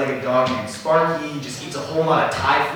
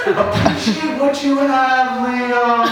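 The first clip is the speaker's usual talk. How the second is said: high, slow, loud sage advice; wise old Eric; 8 semitones higher, 4 dB louder, slower than usual. Pretend. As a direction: preach it like a grizzled old man. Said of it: "I hear him and he goes".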